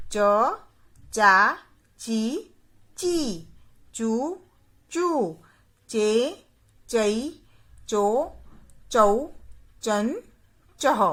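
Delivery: क, का, की... each syllable spoken slowly and clearly, with short and long vowels kept apart; बारह खड़ी को साफ़-साफ़ बोलना; reciting barakhadi. Shown as a demonstration. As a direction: drill each sound of क like a teacher to children. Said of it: "उसका उच्चारण करके बताऊंगी".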